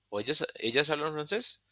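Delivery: "ellas hablan francés" with a rising question ending; "francés" rises as in a question; question intonation. Shown as a demonstration. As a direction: ask "¿ellas hablan francés?", lifting the end.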